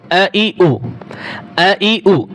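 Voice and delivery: আ, ই, উ clipped short with no stretching; short vowels, no drawl. Shown as a demonstration. Teacher drilling students: আ, ই, উ kept short, not drawn out. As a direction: say আ, ই, উ quick and short. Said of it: "একটুও টান দেওয়া যাবে না".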